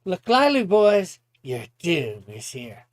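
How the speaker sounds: mock-menacing battle call; Slug.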